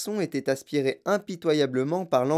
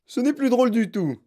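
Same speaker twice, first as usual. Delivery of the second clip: fâché; 8 semitones higher, 4 dB louder than usual. Acted. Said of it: "dit monsieur Gloop".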